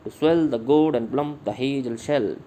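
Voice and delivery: slow da-DUM reading, "swell", "gourd", "plump" and "shell" stressed; iambic beat. Shown as a demonstration. Teacher demonstrates the meter to the class, slow and rhythmic. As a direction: tap out the meter with your voice. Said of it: "इस तरह से".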